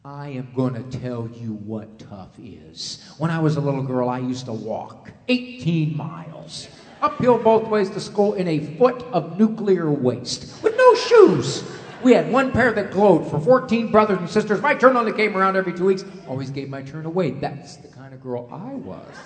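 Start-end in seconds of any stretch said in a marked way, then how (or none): 0.0-10.6 mock martyr lecture, louder at the end; mother telling her son how tough she had it; mother's hardship story. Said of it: "You think you got it tough?". 10.6-11.6 much higher, louder, slow outburst; mother lecturing her son, punchline squeal; mock outrage. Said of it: "You think you got it tough?". 12.0-17.3 mock martyr lecture, louder at the end; mother telling her son how tough she had it; mother's hardship story. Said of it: "You think you got it tough?".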